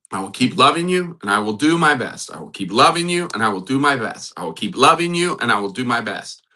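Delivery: steady chant-like repetition, rising on each first half; repeated affirmation. Shown as a demonstration. Pastor leading the listeners in a spoken mantra, steady repetition. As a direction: say it over and over like a mantra. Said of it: "Can you say that over and over".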